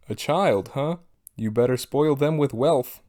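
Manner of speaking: lightly voiced Southern rich man; mock old-timer with a touch of Southern drawl. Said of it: "southern drawl".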